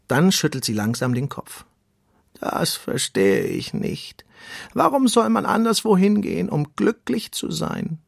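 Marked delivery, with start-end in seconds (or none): 2.4-8.0 put-on slow, ponderous old tortoise voice; calm storybook tortoise; slow wise tortoise. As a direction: let each word take its time like an old tortoise. Tortoise Samia speaks.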